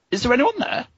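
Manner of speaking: high questioning call into an empty room. A narrator's reading. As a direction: call out to see if anyone's home. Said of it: "you call out".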